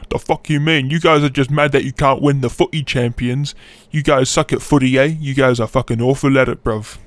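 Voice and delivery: badly faked British football fan; mock a peeved British arguer; lightly put-on indignant British accent; rough British accent. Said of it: "do a proper British accent".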